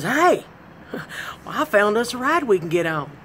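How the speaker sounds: mock friend calling out with a laugh; giggly high call to her pal. Friend laughing as she calls her over.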